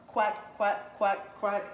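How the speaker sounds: high little duckling quacks; ducklings quacking. Acted. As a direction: chirp it like tiny ducklings. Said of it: "her ducklings agreed".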